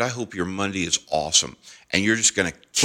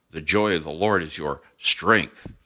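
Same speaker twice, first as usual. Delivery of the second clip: "strength" held back and set apart at the end; stress on STRENGTH; 2 semitones lower than usual. Shown as a demonstration. Preacher showing how the phrase changes, stress on "strength". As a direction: pause before "strength", then land on it. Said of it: "it's saying something different".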